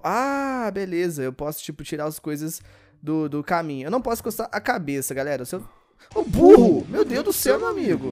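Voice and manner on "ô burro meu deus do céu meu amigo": loud yell at the dumb character; exasperated yell. Real, not acted. Gamer yelling at his clumsy character, loud and exasperated. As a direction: bark it at the screen.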